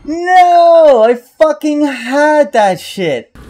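high furious shout; raging gamer. Real, not acted. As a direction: yell it in fury. Gamer loses close fight.

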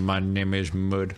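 low, slow mock-solemn line; deep slow voice. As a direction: drop into a deep ominous voice. Joke on mud soup.

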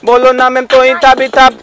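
a comic lisping rapper chatting up madam. Acted. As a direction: lisp every s and r like a cute totla guy. (तोतला रैपर)

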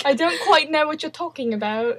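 attempted British accent. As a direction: try a polite British accent. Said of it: "I can't do a British accent".

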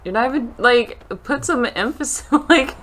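high, loud, rising excitement; excited urging. Real, not acted. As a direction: push your friend to act it out, eager and loud.

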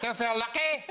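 hammy Clint Eastwood menace, slow; Dirty Harry impression. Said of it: "one of the worst impressions".

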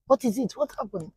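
high-pitched startled questions; alarmed mother. Retold or imitated. Mother alarmed by daughter's scream.

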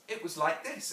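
lightly voiced serious little girl; Jane. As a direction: show mother how it's done, as a child. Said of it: "Jane said gravely".

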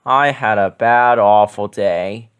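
slow, drawn-out awful; woeful Grover. A narrator's reading. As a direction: droop through awful day. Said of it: "Grover told his mommy".

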